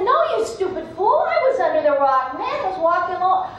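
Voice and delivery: impatient snake scolding; irritated snake. Acted. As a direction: snap at the fool. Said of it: "And Snake said".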